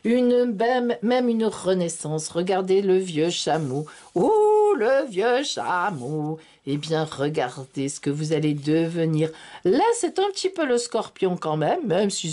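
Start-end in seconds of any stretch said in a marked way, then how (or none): 4.1-6.4 surprised exclamation. Real, not acted. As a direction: marvel at the card, then linger. Exclaims at the old camel card. (étonnée, oh aigu et fort, puis traîné lentement)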